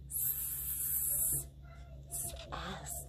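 "S-" hissed as a long sss; s sound. Shown as a demonstration. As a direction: hiss "S-" slowly without voice. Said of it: "What's that sound?".

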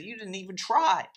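hammed-up scolding of a quitter; mock angry shout. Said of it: "about to, like, throw something through the T V".

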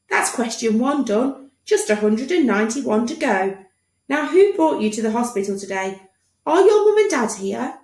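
a lightly high doctor voice; chatty doctor. Acted. Doctor asking Tom about parents, light doctor voice. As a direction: press on with the form.

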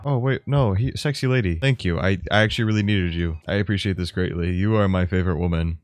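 usual speaking voice

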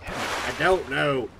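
slow southern drawl on "I don't know", the "don't" stretched out long. Real, not acted. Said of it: "I'm keeping the southern drawl".

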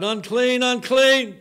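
high, loud desperate cry. Retold or imitated. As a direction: call it out like a leper at the gate. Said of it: "And I cried".

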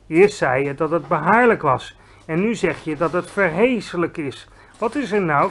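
put-on a giant scolding a silly girl; exasperated giant. Giant lecturing Sophie about bubbles, exasperated.

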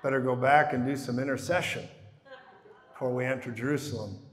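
low, hushed, mock-cautious Jesus turning back from the city; hesitant mock Jesus. Preacher mocks a timid Jesus who fears the devil, low and hushed. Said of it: "He's like".

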